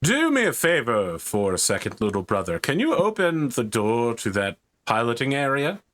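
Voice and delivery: lightly voiced armored warrior asking a favor; a hint of a lordly big-brother soldier; Space Marine.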